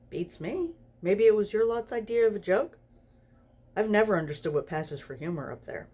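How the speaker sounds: Crowley shrugging off the angel's question, breezy; breezy demon. Acted. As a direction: toss it off with a careless shrug.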